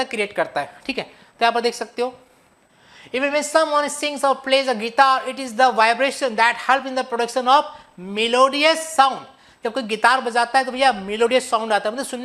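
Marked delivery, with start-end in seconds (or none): 3.1-9.2 slow, deliberate English reading; measured reading of the English definition; slow textbook read. Acted. Reads English textbook slowly.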